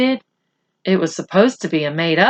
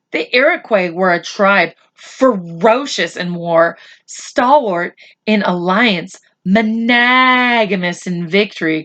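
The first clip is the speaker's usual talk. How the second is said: grand quotation. Acted. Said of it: "quoted Omri".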